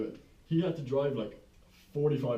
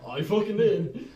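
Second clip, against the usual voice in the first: heated retort; 7 semitones higher, 7 dB louder, slower than usual. Retold or imitated. Retelling a pub argument.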